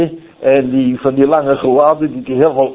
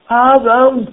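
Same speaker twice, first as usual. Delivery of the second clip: high, raised call of a name; 8 semitones higher than usual. Acted. God calls Adam in the garden, calling out. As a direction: call out to someone hiding. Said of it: "hij roept".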